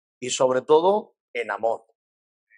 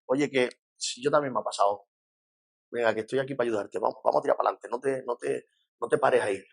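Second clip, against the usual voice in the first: humble encouragement; 3 semitones lower, 4 dB quieter, faster than usual. Retold or imitated. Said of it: "cuando uno viene con humildad".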